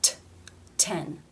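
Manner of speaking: TEN with a crisp released T; real T. Shown as a demonstration. Teacher modelling the last word, real T in TEN. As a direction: sound the T alone, then TEN with that true T. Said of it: "pronounced as a real T".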